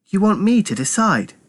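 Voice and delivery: high-pitched puzzled question; confused. A narrator's reading. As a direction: ask in high-voiced confusion. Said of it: "Myra looked confused".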